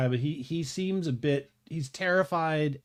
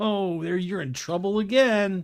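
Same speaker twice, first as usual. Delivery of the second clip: high, loud talk with chuckling through words; 6 semitones higher, 5 dB louder than usual. Voicing a police officer amused at a familiar man: chuckling while talking. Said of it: "He chuckles".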